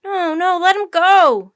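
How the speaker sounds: high, very loud plea; urgent high-pitched shout; desperate protest. Acted. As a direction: cry out to stop them. Jack begs for the octopus.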